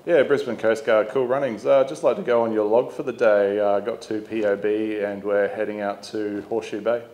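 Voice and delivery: skipper hailing the Coast Guard on VHF, by the book; radio call demo. Shown as a demonstration. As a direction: call it in like a skipper on channel seven two. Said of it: "we're gonna demonstrate a radio call".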